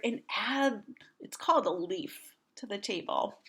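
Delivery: put-on reading to children, hushed aside; explaining aside. A narrator's reading. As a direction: lean in and explain gently.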